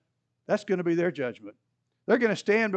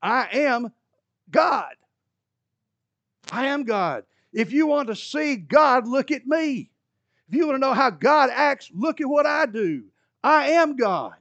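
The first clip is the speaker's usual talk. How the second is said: dramatic proclamation; 6 semitones higher, 5 dB louder than usual. Retold or imitated. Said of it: "even more dramatically".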